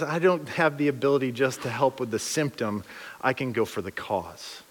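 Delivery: steady, gentle authority; calm Jesus. Retold or imitated. Jesus answering calmly.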